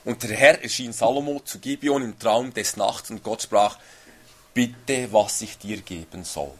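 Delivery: measured, solemn reading of the verse; steady formal Bible reading; scripture reading. Acted. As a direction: read it like scripture from the pulpit. Reads Bible verse aloud.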